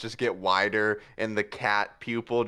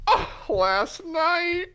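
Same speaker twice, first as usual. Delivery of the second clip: high, slow laughing repeat; gleeful echo; 3 dB louder, much slower than usual. Acted. Puss echoing Zenith gleefully. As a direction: echo it with delight.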